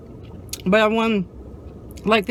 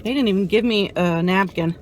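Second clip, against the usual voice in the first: ordinary talk, nothing marked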